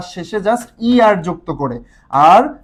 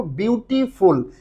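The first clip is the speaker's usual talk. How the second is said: বিউটিফুল split into parts, বিউটি then ফুল; syllable by syllable; 4 dB quieter, much slower than usual. Shown as a demonstration. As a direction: break বিউটিফুল audibly into its spoken parts. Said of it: "উচ্চারণের যে ভাগ". (বিউটিফুল ভাগ ভাগ করে উচ্চারণ, বিউটি তারপর ফুল)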